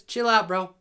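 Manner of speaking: lightly voiced cool bro; low and laid-back, like a chill dude talking; a hint of a cocky bro; voicing the team. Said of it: "University of Miami says".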